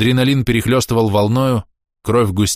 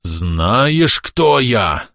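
out of breath; 3 semitones higher, much slower than usual. A narrator's reading. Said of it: "задыхаясь".

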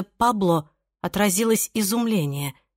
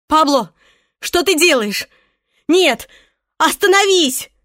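high, loud frightened cry; terrified plea; 8 semitones higher, 7 dB louder than usual. A narrator's reading. Irene dragged upstairs, terrified cry. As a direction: beg him to stop.

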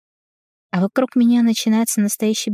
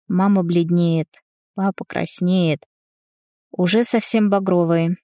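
ordinary delivery

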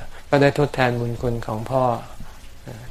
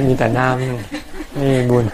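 laughing; much slower than usual. Real, not acted. Jokes that pouring water gains nothing.

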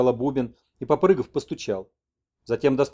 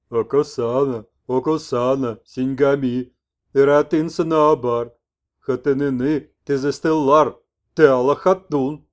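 louder, slow sing-song; shaman messenger; 7 dB louder, slower than usual. Acted. Messenger explains Yurko's love to the old man, loud, slow. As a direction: speak of love with fervour.

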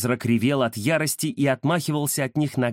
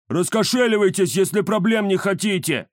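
thuggish henchman threat; 5 semitones higher than usual. Acted.

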